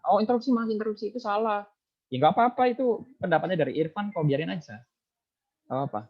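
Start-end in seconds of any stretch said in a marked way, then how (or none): 0.1-1.7 imitating a snapping interruption. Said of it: "ketika Irfan nyentak".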